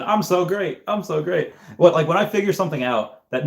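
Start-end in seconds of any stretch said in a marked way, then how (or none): 0.0-1.5 lightly voiced cocky cartoon kid, higher; smug bragging kid, only hinted; a hint of a boastful cartoon boy; Bart Simpson. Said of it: "I'm like Bart Simpson".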